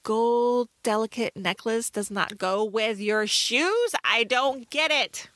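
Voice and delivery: retold bafflement. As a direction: stretch the words in mock disbelief. Retelling own baffled reaction to film.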